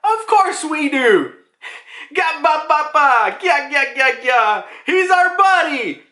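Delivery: high, slow, booming giant laugh with words. Retold or imitated. Giants answering Top Curry, high slow laughing voices. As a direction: ham up the giants' proud guffaw. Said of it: "Dory and Bragi are like".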